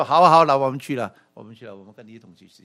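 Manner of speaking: mock eager disciple saying let's go; eager cheerful agreement. Shown as a demonstration. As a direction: sound glad and willing. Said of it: "他不是说：".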